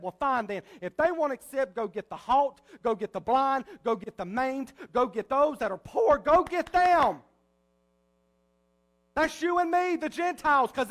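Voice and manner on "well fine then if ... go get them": a hint of a master sending his servant, building; master's command. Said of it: "and he said".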